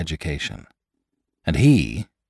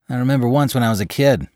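higher, brisk character voice; reminiscing attendant; 5 semitones higher, faster than usual. Acted. Attendant to Lantry about a smell, reminiscing. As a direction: launch briskly into a memory.

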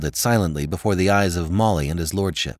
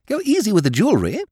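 high, fast upper-class chatter; fussy silly lord; chiding lordship; 12 semitones higher, 4 dB louder, faster than usual. A narrator's reading. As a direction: chide quickly in a pitched-up voice. Lordship chides them over necklace.

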